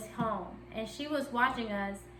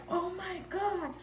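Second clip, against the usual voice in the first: "Oh my gosh" higher and slow, drawn out; mock shocked; 7 semitones higher, 4 dB quieter, slower than usual. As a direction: stretch "gosh" in mock alarm. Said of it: "Heavy on rubber".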